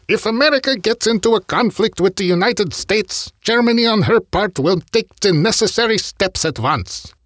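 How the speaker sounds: high, put-on German accent for Hitler; bad German accent. Podcast host quoting Hitler to Matsuoka, bad German accent. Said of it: "bad German accent".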